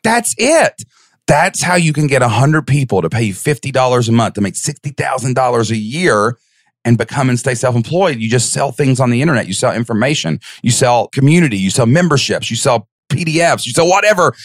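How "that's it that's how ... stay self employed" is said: higher, eager rush of discovery; excited realization. Retold or imitated. Man on a lawnmower working it out, higher excited voice. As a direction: it finally clicks, tell it breathless. Retold epiphany.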